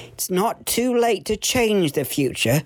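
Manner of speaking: lightly voiced ghost giving a slow warning; ominous warning. The speaker as Christmas ghost warning Sam, slow and ominous.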